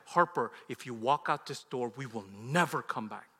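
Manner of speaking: stern, controlled warning; understated no-nonsense father; serious daddy voice. Retold or imitated. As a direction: drop the kindness and warn the child. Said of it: "no more kind daddy voice. This is, like, serious".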